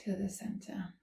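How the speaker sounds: unhurried calm cueing with long pauses; guided yoga instruction. Real, not acted. Yoga teacher leading listeners into gentle stretches, calm guiding voice. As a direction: guide them gently through each movement.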